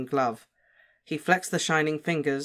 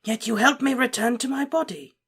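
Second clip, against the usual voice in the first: cool, higher villain voice; coolly; 10 semitones higher, 3 dB louder than usual. A narrator's reading. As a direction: say it coolly, with disdain. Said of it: "said Voldemort coolly".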